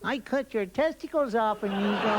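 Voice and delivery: smiling Mexican menace; Mexican accent. Acted. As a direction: threaten amiably in a put-on Mexican accent. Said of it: "Mexicans is always amigo".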